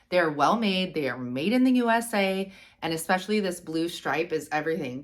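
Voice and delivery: talking through the nose; blocked nose, nasal tone. Real, not acted. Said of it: "I sound like I'm talking through my nose".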